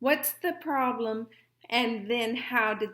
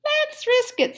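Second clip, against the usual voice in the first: brave decision; 12 semitones higher, 4 dB louder than usual. A narrator's reading. Wife decides.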